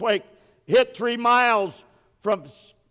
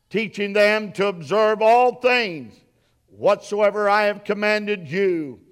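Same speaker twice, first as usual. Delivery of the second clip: scripture reading. Acted. Preacher reads Jesus' words to the congregation, solemn proclamation. Reads the Great Commission aloud.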